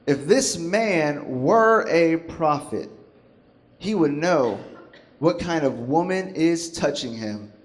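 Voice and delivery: measured, disdainful delivery, letting the judgment land; with attitude. Acted. Pharisee judging the woman to himself, with attitude. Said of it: "He said it with an attitude".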